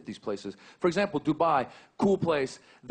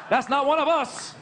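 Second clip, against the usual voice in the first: 1 joyful relief; 11 semitones higher, 4 dB louder than usual. Retold or imitated. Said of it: "I'm like".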